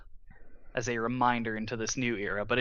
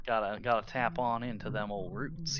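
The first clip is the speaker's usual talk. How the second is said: softer, joking Southern twang; Southern accent; 6 dB quieter than usual. Pretend. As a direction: lean into a country Southern accent. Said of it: "I can do the accent".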